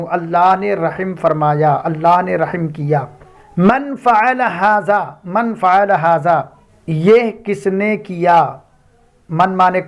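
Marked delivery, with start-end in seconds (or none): 3.6-5.0 slow, careful Arabic. Shown as a demonstration. Teacher models the Arabic question for learners, slowly. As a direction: spell out من فعل ھذا word by word, slowly. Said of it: "اور اس طرح بولتے ہیں".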